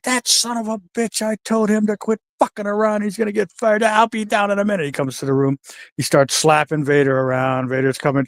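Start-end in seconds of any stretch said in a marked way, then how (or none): 0.0-4.8 put-on higher-pitched grumbling old-school boss; lightly voiced angry wrestler; annoyed Harley. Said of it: "And he's like".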